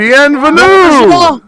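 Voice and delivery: high, slow, loud French greeting; exaggerated French accent welcoming the guard; hammy French accent. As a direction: stretch it out like a cartoon Frenchman. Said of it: "in a French accent".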